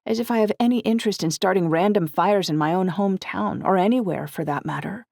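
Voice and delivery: acted indignation, voice lifted; indignant. A narrator's reading. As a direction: protest your innocence indignantly. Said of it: "My face heated with indignation".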